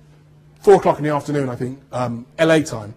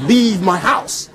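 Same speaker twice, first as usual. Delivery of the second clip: slow; 2 semitones higher, much slower than usual. Retold or imitated. Tired of the friend.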